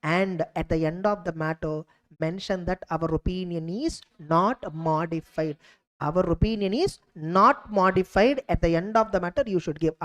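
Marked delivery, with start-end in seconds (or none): 6.0-8.4 slow, deliberate, each word set apart; slow dictation. Shown as a demonstration. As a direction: dictate it slowly for students to copy. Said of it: "teacher repeats wording for students".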